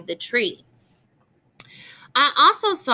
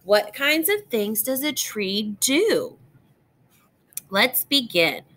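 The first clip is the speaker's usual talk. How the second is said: put-on bright, lilting read-aloud voice for young listeners; reading to children. Teacher reads a tree book to young students, gentle storytime reading.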